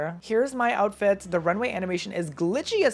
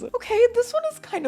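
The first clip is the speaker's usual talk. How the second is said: pitched way up, grudging okay; high squeaky relief; 4 dB louder than usual. Real, not acted. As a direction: squeak it out, barely satisfied. Relief after ugly faces.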